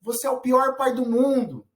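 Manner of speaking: high, lightly voiced sulky child; a hint of a child accusing his father; angry child. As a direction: throw it at dad like a hurt kid. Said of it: "o filho fala assim".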